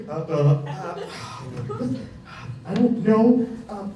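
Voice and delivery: loud, stammering, panicked answer; frozen customer blurting out; flustered customer. Retold or imitated.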